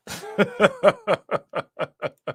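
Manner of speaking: long rolling laugh. Real, not acted. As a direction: laugh it out at the skit. Laughs at his own skit.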